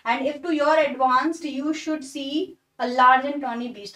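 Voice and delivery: slow, deliberate recitation of the line; poem reading. Shown as a demonstration. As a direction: read the verse slowly, word by word. Rewritten line read slowly. (धीमे-धीमे कविता पढ़ना)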